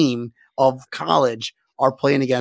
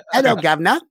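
half-hearted mock English accent; failed English accent; 3 semitones higher, faster than usual. Host attempting the English player's greeting, poor English accent. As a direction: have a bad go at an English accent. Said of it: "English, English tea accent".

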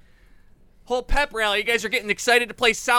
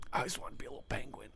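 fast whisper; 12 semitones lower, 17 dB quieter, much faster than usual. Acted. Embarrassed confession.

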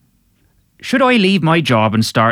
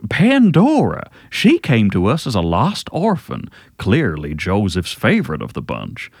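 put-on generic Southern accent. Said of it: "generic Southern accent".

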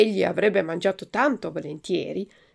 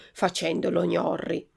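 ordinary delivery

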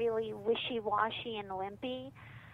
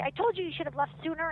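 mock scolding husband; 7 semitones higher, 4 dB louder, much faster than usual. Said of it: "barking you all the things".

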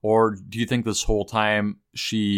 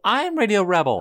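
very high, louder climactic cry; mock crowd shout; 12 semitones higher, 3 dB louder than usual. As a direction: top the chant with a high cry. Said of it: "everybody starts saying".

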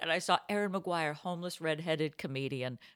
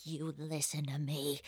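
stern friend; 3 semitones lower, 8 dB quieter than usual. Retold or imitated. Friend sternly talks her up.

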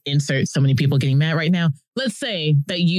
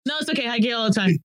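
higher, lightly voiced friendly stranger; lightly acted, higher-pitched reassurance; mock reassurance; 5 semitones higher, much faster than usual. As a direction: gently brush off the apology. Acted tattooed stranger reassuring a judger.

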